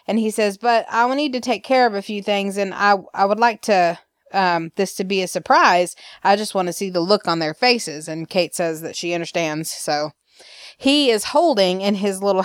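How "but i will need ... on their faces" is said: put-on Alabama accent. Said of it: "I'll talk like that".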